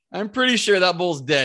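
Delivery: can't believe it, giddy; retold giddy realization after the shot; excited disbelief. Realizing he killed the bull.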